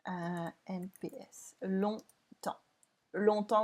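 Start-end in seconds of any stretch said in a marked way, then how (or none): 1.6-3.6 "Longtemps" with no G, P or S heard; "Longtemps" ending on the nasal vowel; silent letters. Shown as a demonstration. Teacher modelling "Longtemps" for students, letters silent. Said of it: "we don't say the G".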